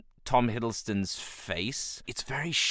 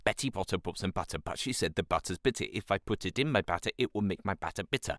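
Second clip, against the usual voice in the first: tongue twister warm-up; 5 dB quieter, faster than usual. Shown as a demonstration. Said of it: "I always do a bunch of warm-ups".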